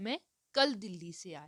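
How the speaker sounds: hard stress landing on कल. Lesson on word stress, answering when someone came, with stress on कल. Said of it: "इस answer में जो कल जो यस्टरडे शब्द है उस पे फोर्स दिया जा रहा है".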